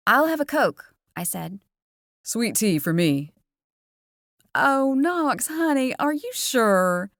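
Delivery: a hint of a chatty diner waitress; Southern waitress Dory. Dory chats to the teens about her sweet tea, lightly Southern.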